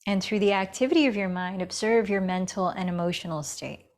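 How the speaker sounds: unhurried meditation guidance with long pauses; guided meditation. Acted. Yoga teacher settling students into breath and awareness, guided meditation. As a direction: guide them inward, leaving space between phrases.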